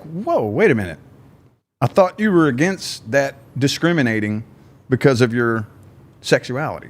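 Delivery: mock surprise. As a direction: pull up short at the hypocrisy. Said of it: "And it's like".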